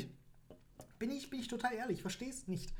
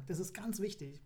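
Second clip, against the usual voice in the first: sudden secretive whisper; 5 dB quieter than usual. Acted. Podcaster whispering a tip to listeners, hushed whisper. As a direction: let them in on a secret, hushed.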